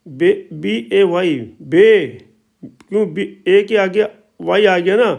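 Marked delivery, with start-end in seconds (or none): 0.1-2.1 teacher spelling out and modelling "बे"; lengthened ए. Shown as a demonstration. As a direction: spell it slowly, then punch a long "बे". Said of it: "तो इसलिए बे बोलेंगे".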